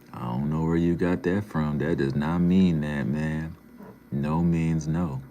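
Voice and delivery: loud, firm telling-off; emphatic rebuke. Real, not acted. Streamer rebukes a chatter over consent, loud and emphatic.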